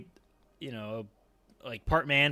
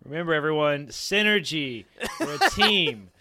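mock corporate cheer; 6 dB louder than usual. Mock corporate pep talk.

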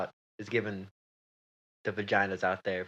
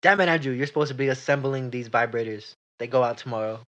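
angry boss; 3 dB louder than usual. Acted. Improv boss scolding worker.

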